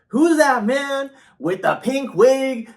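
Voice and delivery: high, slow, mocking voice of a rude stranger; high scandalised imitation; mocking nosy stranger. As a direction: squeal it out like a scandalised busybody. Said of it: "this person was like".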